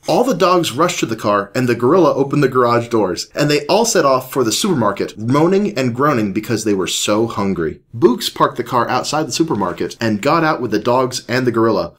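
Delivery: animated read-aloud voice; story narration. A narrator's reading. Reads a children's story aloud.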